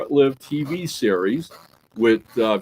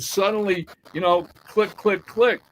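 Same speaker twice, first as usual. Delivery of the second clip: dramatic reveal; 7 semitones higher than usual. Acted. Dramatic reveal, click sound.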